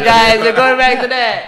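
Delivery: loud mock complaint; laugh-shout in protest; exasperated shout. Real, not acted.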